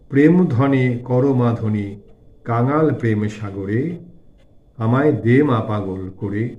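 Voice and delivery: slow, drawn-out chanting recital of verse; devotional verse recitation. A narrator's reading. Narrator reciting a song to the Divine Mother, slow devotional recitation. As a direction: recite the hymn slowly, lingering on line endings.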